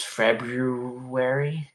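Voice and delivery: "February" sounded out slowly with both r's; effortful pronunciation. Shown as a demonstration. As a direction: stretch through "February", Feb-roo-wary. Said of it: "One that I just straight up don't say".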